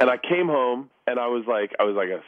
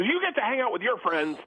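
she goes; 8 semitones higher than usual. Retold or imitated. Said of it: "And she goes".

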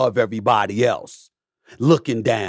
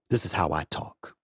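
low and quiet; 6 semitones lower, 8 dB quieter than usual. Shown as a demonstration. To Dan Le Batard, a low quiet take. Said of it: "Sometimes lower".

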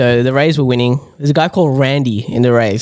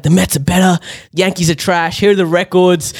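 mildly heated fan bragging, a bit higher; mock a fan picking fights; going off; 4 semitones higher than usual. Imitating the Mets fan baiting everyone, lightly combative. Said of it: "he was going off at everyone".

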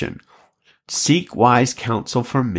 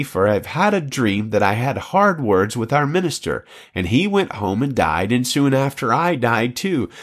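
higher, expressive read-aloud of an anecdote; story narration; 3 semitones higher than usual. Acted. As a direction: read it as a lively old tale, voicing the dialogue.

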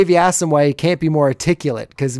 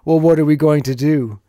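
coy. Acted. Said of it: "all coy-like".

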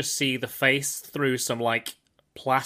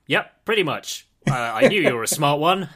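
louder, breezy confirmation; acted KGB recruiter; 2 semitones higher, 6 dB louder than usual. KGB man replying to his new recruit, breezy acted reply. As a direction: confirm the threat cheerfully, a bit louder. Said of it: "and he's like".

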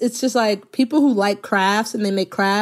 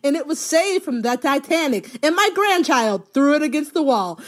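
mock customer story, high and cracking up; can barely get the words out for laughing; laughing through a quote; 5 semitones higher than usual. Telling friends about repair show customers, laughing through it.

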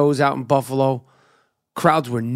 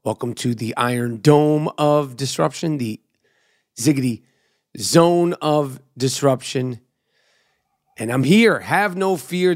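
hype podcast intro. Acted. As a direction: roll out the nicknames like a ring announcer. Podcast host intro over music.

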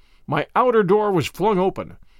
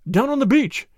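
1 urgent; 7 semitones higher, 3 dB louder than usual. Acted. Urgent account of rescue.

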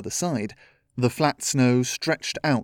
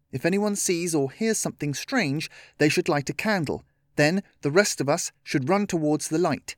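put-on higher-pitched young leader, earnest; lightly voiced child laying out a plan; Chloe proposing a plan; 4 semitones higher than usual.

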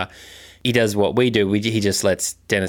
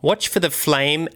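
spooky poem. Acted. Recites a spooky rhyme.

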